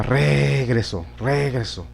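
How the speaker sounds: "regreso" with a long, slow RE and falling ending; stress on first syllable. Shown as a demonstration. Teacher rejecting this option for students, stress wrongly on RE in "regreso". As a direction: stretch the E of RE in "regreso". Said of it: "en la E de la re".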